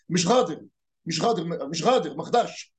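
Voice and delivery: قادر said as غادر with gh; qaf as ghain. Shown as a demonstration. Teacher imitates a Qalyubia villager saying غادر. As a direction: turn the q of غادر into a gh sound. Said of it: "بيحول القاف لغين".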